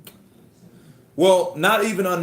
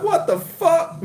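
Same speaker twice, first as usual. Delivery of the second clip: laughing disbelief; 4 dB louder, slower than usual. Retold or imitated. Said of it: "I'm like".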